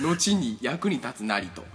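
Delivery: lightly voiced old sage, proclaiming; a hint of an ancient master reciting a maxim; creaky wise old man. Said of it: "おじさん".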